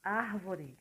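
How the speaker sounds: árvore with the R said before v. Shown as a demonstration. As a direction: sound the R in árvore. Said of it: "A pronúncia é". (pronúncia correta de árvore)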